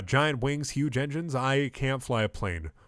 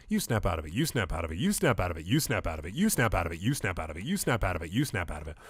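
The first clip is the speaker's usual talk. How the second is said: lower, mildly insistent retorts; rhythmic tit-for-tat, pitched down; repetitive retort; 4 semitones lower than usual. Acted. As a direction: throw the same retort back and forth. Acted back-and-forth snapping out quarrel.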